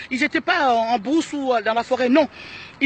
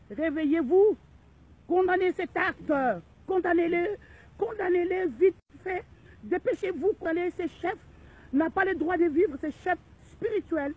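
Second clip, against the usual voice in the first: loud, higher furious call to action; angry outcry; 4 semitones higher, 6 dB louder than usual. Real, not acted. Outraged woman urging Congolese to condemn the act, loud angry shout. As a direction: shout your outrage at the crowd.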